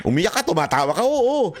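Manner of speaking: high, laughing through the words; laughing while talking. Real, not acted. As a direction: laugh it out, crying and laughing at once. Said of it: "tawa pa nga ako ng tawa".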